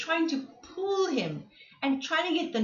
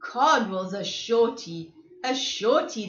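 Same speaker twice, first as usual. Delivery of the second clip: teasing; 4 dB louder than usual. Acted. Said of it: "they teased".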